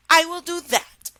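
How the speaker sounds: high, loud princess; high breezy princess. Acted. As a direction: brush it off as the princess. Princess voiced in story.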